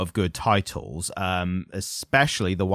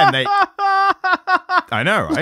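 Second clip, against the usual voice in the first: laughing; 4 dB louder, much slower than usual. Real, not acted. Laughing at the comic's premise.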